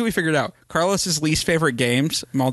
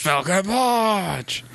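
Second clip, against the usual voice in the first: high, drawn-out battle cry; hammed-up fighting game special-move shout; Captain Falcon yell; 6 semitones higher, much slower than usual. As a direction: stretch out a mock heroic attack yell. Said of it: "just hear him yell".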